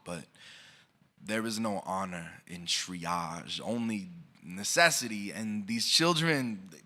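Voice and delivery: measured, rhythmic spoken word delivery; slam poem recitation. Acted. Poet reciting to the audience, rhythmic spoken word. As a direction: perform the poem to a listening room.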